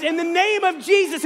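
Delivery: loud, high, hammed-up preaching; mock preaching shout. Preacher voicing victim shouting over kidnappers, hammed-up. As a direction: proclaim it over the attackers. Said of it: "and he's".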